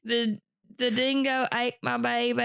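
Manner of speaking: hammed-up fake Australian accent; a bad, jokey Australian accent; mock Australian accent. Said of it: "that's my trash accent".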